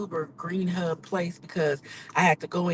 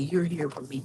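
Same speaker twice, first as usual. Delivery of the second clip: whispered thanks; 4 dB quieter than usual. Real, not acted. Tender thanks to viewers.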